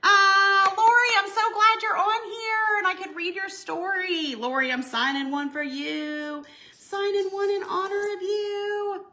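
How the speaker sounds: choked up, fighting tears while speaking; emotional crying. Real, not acted. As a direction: voice breaking with tears, pitched high. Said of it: "I'm just in all the feels".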